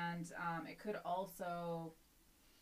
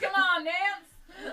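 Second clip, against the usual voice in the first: mock posh voice; 13 semitones higher, 16 dB louder, much slower than usual. Playing posh Pelosi, laughing.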